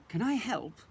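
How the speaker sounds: lightly voiced eager seahorse; eager Mister Seahorse. A narrator's reading. Mister Seahorse offers his wife help, lightly voiced. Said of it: "asked Mister Seahorse".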